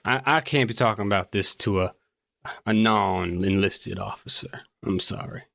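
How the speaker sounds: a touch of reluctant officer; lightly voiced officer. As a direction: hold back reluctantly, tailing off on the apology. Game master plays the officer.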